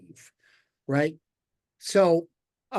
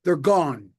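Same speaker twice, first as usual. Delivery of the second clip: punchline delivery; 4 dB louder than usual. Acted. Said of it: "And he goes".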